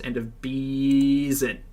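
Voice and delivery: slow, mock-solemn announcement; slow dramatic. Shown as a demonstration. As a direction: end of Beeson drawn out slowly, falling at the end. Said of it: "the end of Beeson".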